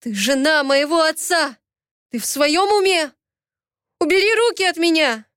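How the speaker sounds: pushing her away in anger; angry rebuke. Acted. Ramil rejects her, angry. (гневный окрик, выше)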